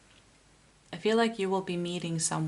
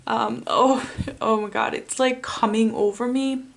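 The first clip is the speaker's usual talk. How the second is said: tearful; 3 semitones higher, 5 dB louder than usual. Real, not acted. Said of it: "that's why I'm crying".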